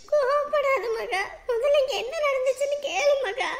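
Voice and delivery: slow, soothing plea; calm an angry daughter, slowly; pleading. Acted. (கெஞ்சலாக)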